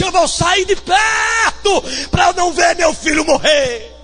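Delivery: high, tearful cry of despair; crying mother. Acted. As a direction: wail it as a mother giving up. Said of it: "E chorou amargamente". (mãe chorando amargamente, voz alta)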